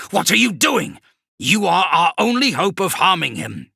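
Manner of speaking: high, loud, disbelieving; alarmed shout. Acted. Kravrek to the kneeling sorcerer, a high alarmed shout. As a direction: demand an answer.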